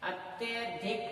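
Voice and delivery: अत्यधिक said slowly, syllable by syllable; correct careful form. Shown as a demonstration. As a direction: sound out अत्यधिक slowly and clearly. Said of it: "ये शुद्ध रूप है". (अत्यधिक को धीरे, साफ़ बोलें)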